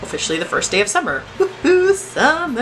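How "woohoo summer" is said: high, bright whoop of joy; excited cheer. Real, not acted. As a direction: cheer it like a celebration. Cheering the first summer day.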